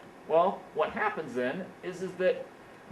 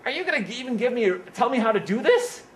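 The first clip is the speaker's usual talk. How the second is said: fast, higher, louder put-on griping; mock whiny complaint; 7 semitones higher, 4 dB louder than usual. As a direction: parody a worker protesting the task. Mocking an entitled complaint.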